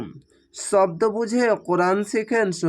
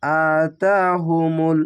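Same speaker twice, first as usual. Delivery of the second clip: আতাহুমুল said very slowly, the vowels held long; slow drawn recitation; much slower than usual. Shown as a demonstration. Teacher models the Quran word slowly. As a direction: hold each vowel of আতাহুমুল. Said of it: "খাড় জাবার এক আলিফ টেনে পড়বেন".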